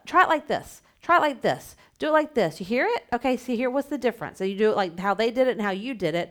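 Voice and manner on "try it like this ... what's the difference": encouraging therapist voice. Shown as a demonstration. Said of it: "You wanna say".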